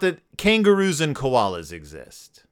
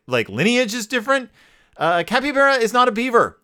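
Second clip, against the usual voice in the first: higher, pedantic lecturing voice; know-it-all; 5 semitones higher than usual. Retold or imitated. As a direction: correct them like a nerd. Pedantic correction voiced as character.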